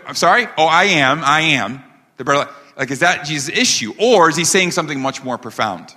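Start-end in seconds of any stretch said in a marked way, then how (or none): 0.6-2.6 mock stutter. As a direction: playfully act out an accidental repetition. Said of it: "does Jesus have a stuttering problem".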